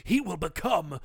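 booming trailer narrator; movie trailer voice. Shown as a demonstration. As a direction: read it like an epic movie trailer. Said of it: "I'm gonna try and do my best movie voice, uh, impression".

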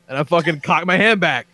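ordinary talk

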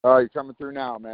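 distant, off mic; talking away from the mic; far from mic. Real, not acted. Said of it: "You're off in the dinkies".

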